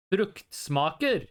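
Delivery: "fruktsmaker" slowly, every syllable clear; "fruktsmaker" yavaşça, her hece tek tek; slow Norwegian reading. Shown as a demonstration. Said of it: "the way it's written".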